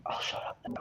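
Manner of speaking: near-silent, sheepish aside; whispered bowing-out. Real, not acted. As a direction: trail off into a self-effacing whisper. Sheepishly backs out of speaking.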